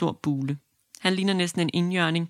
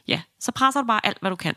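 a lightly voiced midwife, a little higher and louder, urging; midwife's order; 5 semitones higher, 4 dB louder than usual. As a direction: push her on like a brisk midwife. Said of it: "lyder det". (let jordemoderen lidt højere og bestemt opfordre til at presse)

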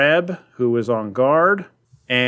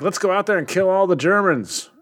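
lightly voiced eager fighter, pitched up; mock gung-ho soldier; 8 semitones higher than usual. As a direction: imitate someone itching for battle. Acts out Ryan's battle-eager quote.

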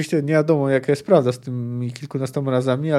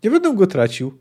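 higher, mildly sullen refusal; gloomy declaration; 5 semitones higher, 3 dB louder than usual. Acted. Executioner refuses to carry out the execution, mildly gloomy. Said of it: "oświadczył ponuro kat".

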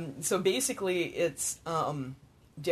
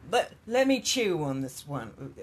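mock southern drawl. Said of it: "I can't do the accent right now".

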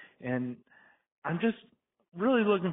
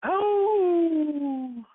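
high, loud excited gasp of a word; real eager exclamation; 7 dB louder than usual. Real, not acted. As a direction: burst in with delight. Caller's excited opening exclamation.

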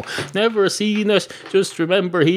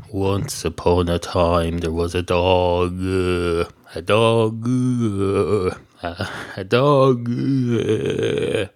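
slow, lower storybook opening; story opening; 6 semitones lower, much slower than usual. Acted. Comedian begins a once-upon-a-time dog story, slow storytelling. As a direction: start a fairy tale slowly, dragging it out.

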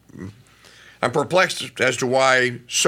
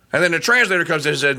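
usual speaking voice

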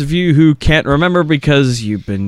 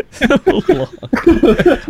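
"So long" squeaked very high through a laugh; squeaky laughing sign-off; 7 semitones higher than usual. Shown as a demonstration. Host giggling a goodbye to listeners, squeaky high.

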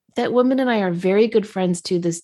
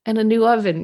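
laughing, exasperated rant; 6 semitones higher than usual. Retold or imitated. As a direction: vent it with a laugh. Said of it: "My thoughts were".

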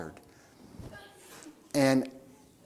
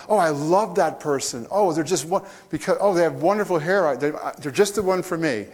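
lively, raised, breathless-lover parody; mock infatuated gushing; 4 semitones higher, 4 dB louder than usual. Smitten dater raving about someone just met, gushing. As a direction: gush as if instantly smitten.

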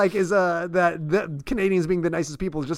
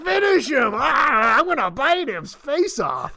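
Mortal Kombat announcer; 8 semitones higher, slower than usual. Retold or imitated. Mocking the old lady's attack as a game announcer. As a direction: ham up a fighting game voice. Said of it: "like a Mortal Kombat finishing move".

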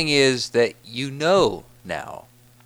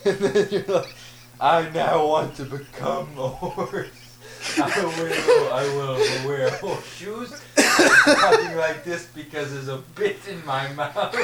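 giggling through the words; real laughter under the lines; laughing; 2 semitones higher than usual. Real, not acted. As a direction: talk while still laughing. Laughing while retelling the bit.

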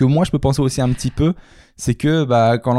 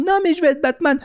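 put-on high little kid voice; child voice. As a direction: squeak it out like a small boy. Imitates the child answering back.

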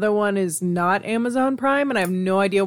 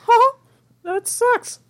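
unimpressed; 14 semitones higher, much slower than usual. Pretend. Imitating unimpressed reaction.

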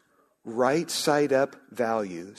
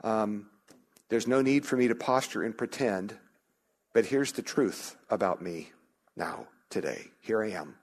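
sample honest prayer; 3 dB quieter than usual. Shown as a demonstration. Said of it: "It's okay to just say".

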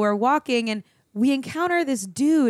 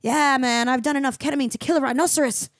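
Australian surfer; 2 semitones higher than usual. Retold or imitated. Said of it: "this weird Australian surfer".

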